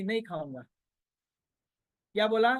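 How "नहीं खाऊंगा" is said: put-on stubborn child. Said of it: "बच्चा ने जिद की".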